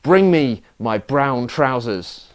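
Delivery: slow, stern captain's order with a hint of pirate accent; captain turns to his first mate and gives a slow, stern order. Stern order to the first mate, lightly voiced pirate. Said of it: "in a stern voice told him".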